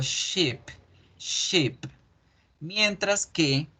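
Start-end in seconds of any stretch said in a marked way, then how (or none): 0.0-1.8 "ship" stretched into sheep; "ship" with a long ee, as in sheep; lengthened I. Shown as a demonstration. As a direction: hold the vowel of "ship" a little longer. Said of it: "Alargo la I un poquito".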